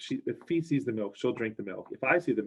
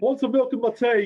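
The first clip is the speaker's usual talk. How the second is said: poor, bad, fake put-on British accent; 13 semitones higher, 8 dB louder than usual. Speaker imagines a British woman wanting milk in her tea, in a bad British accent. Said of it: "That's such a bad British accent".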